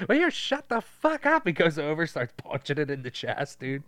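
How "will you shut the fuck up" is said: high-pitched exasperated outburst; mock yelling. Scout yelling at a cow, high mock exasperation. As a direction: snap it as a hammed-up yell, not much louder. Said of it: "he does yell at the cow".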